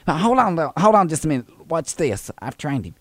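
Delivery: put-on Southern old lady voice; sweet old lady caller, fussy and polite. Prank caller playing Thelma to the postal clerk, sweet old lady voice.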